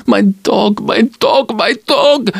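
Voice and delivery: high, strange keening voice; a lightly voiced stranger grieving his dog; mourning. A narrator's reading. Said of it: "the strange voice mourned".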